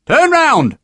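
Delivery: high, loud bellow across the yard; booming sergeant. Acted. Sergeant booming at Harper across the yard, loud high bellow. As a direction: boom it over the yard. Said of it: "voice booming over the yard".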